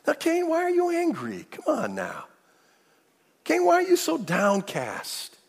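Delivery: loving, patient God. Acted. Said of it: "God very lovingly and patiently says to Cain".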